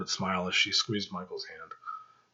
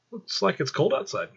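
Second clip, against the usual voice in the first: leering joke; 10 semitones higher than usual. Acted.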